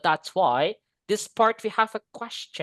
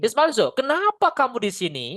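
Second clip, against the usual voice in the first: Indonesian-style question with raised "sini"; question rising at the end; 4 semitones higher than usual. Shown as a demonstration. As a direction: lift the pitch towards "sini". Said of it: "Pasti naik". (nada tanya naik sampai "sini")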